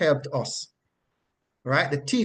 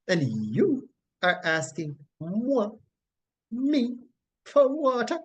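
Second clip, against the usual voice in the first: acted incredulous retort, higher on the final words; animated Samaritan woman; 3 semitones higher than usual. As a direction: play her taken aback, drawing out "moi". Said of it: "animation that was taking place".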